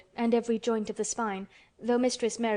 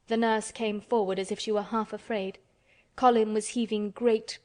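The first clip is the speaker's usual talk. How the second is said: plain reading voice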